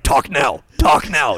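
mock Russian threat; Russian accent. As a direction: growl it in Khabib's Dagestani accent. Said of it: "Khabib's like".

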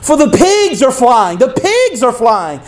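high, slow mock-excited call to a friend; teasing schoolboys. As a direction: lure him to the window with fake wonder. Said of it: "and they say".

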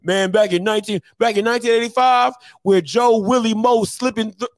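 put-on old head reminiscing. Old head telling of Joe Willie Moe, mock reminiscing. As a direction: launch into a mock tale of the glory days. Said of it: "that's what y'all old heads sound like".

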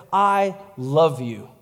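slow, tender declaration; gentle and unhurried; Jesus. Acted. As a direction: give each word room, sincerely. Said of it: "He said".

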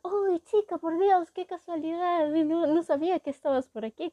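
hammed-up thrilled greeting; excited. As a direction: play the overeager admirer bumping into her. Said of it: "él como todo emocionado".

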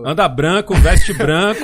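loud, amused list with laughter creeping in; laughing. Real, not acted. Friends joking about dressing white, laughing along. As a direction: reel it off loudly through a laugh.

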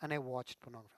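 loud, high, anguished plea to God; pleading confession. Shown as a demonstration. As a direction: pour it out as a desperate, earnest prayer. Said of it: "That is true confession".

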